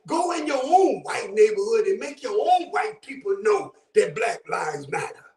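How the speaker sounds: half-shouted street warning to a stranger; a brother warning a man off the block; retold warning. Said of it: "He said".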